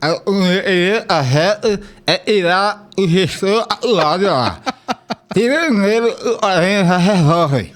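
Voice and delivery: slurred with tongue sticking out. Real, not acted. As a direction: answer with the tongue out. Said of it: "Ninguém imagina a Sargento Rodolfo falando desse jeito".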